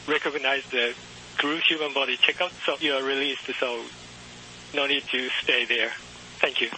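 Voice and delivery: faint, crackly radio transmission; distant voice over a patchy radio link; breaking up space radio. Real, not acted. Distant ground station over radio.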